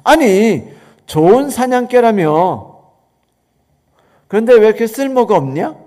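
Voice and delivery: loud, exasperated scolding; a king furious at his useless hunting dogs; angry king. Acted. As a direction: snap at the friend in disgust. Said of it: "성질을 내며 말했습니다".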